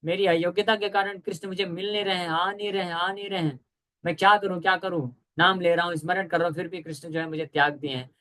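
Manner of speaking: acted plea of an unworthy devotee; imitating a forsaken devotee's lament; humble lament. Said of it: "बहुत दैन्य महसूस करके".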